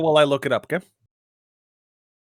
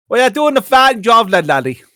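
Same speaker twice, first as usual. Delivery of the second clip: put-on Irish accent; 4 semitones higher, 4 dB louder than usual. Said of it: "a decent Irish accent".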